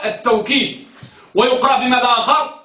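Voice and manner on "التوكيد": التوكيد with a w glide, taw-keed; with waw. Shown as a demonstration. Teacher lists readings for students, waw pronunciation. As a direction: clearly sound the waw in التوكيد. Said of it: "يقرأ بالواو".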